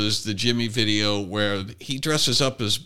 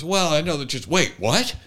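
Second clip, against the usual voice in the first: mock surprise; 4 semitones higher than usual. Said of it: "And she goes".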